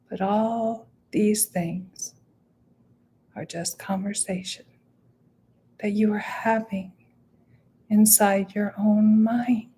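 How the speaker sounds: measured meditation voice with long pauses; guided meditation. Real, not acted. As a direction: guide listeners inward, leaving space after each phrase.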